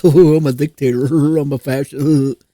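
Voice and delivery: imitating a chuckling, amused Trump; lightly voiced mock Trump laughing off the insults. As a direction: laugh through it like it's a great joke. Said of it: "he thinks it's hilarious".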